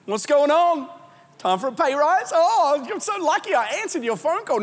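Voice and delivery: butter up the boss; fake cheerful. Worker answers the boss's call with fake cheer.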